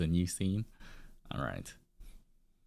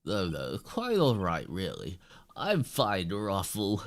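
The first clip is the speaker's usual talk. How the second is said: lightly voiced airy director; a touch of a grand, dismissive showman; odd director voice. Director brushing off the apology, lightly voiced. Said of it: "why is he talking like this?".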